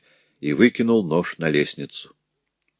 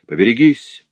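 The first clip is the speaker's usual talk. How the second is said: louder furious warning; shouting in fury; 4 semitones higher, 6 dB louder than usual. Acted. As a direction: yell it in a rage. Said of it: "закричал Морель, вне себя от ярости".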